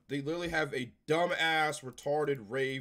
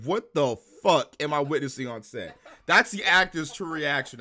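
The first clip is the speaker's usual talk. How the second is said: loud words broken by laughter; real laughing; 2 semitones higher, 9 dB louder than usual. Real, not acted. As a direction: laugh through the line. Laughing while quoting.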